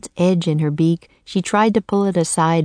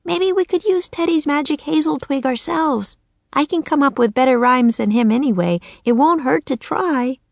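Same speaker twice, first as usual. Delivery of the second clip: put-on high little-girl voice, croaked; a girl turned raven, croaking; 9 semitones higher than usual. Annie to Jack in the nursery, high croaking girl. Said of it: "croaked Annie".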